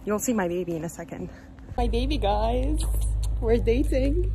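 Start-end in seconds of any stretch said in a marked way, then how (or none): 1.8-4.3 laughing. Real, not acted. Playful talk about girlfriend, laughing.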